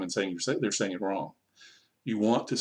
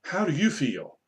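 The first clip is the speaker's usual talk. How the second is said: lightly voiced puppet, raised pitch; puppet question; 4 semitones higher than usual. Shown as a demonstration. Teacher asking through a puppet, lightly raised pitch. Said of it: "you have the puppet and go".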